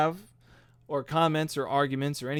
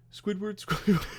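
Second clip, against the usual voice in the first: Squidward voice; 6 semitones higher than usual. Retold or imitated. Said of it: "impersonation of Squidward".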